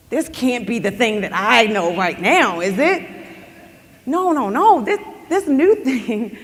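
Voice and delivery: can't believe what she sees; disbelief. Retold or imitated. Girl staring at the crystal ball, excited disbelief.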